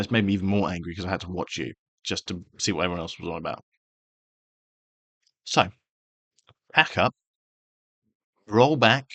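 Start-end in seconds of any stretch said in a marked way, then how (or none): 5.4-9.1 forceful call. Real, not acted. Telling a rival YouTuber to back off.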